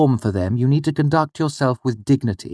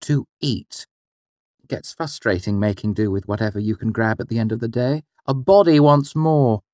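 suggestive hint; 4 semitones higher than usual. Acted. Mother hinting to father.

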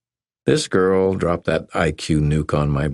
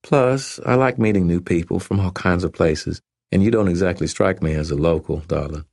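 faint Southern drawl; 2 semitones higher than usual. Acted. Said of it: "She spoke with a very faint drawl".

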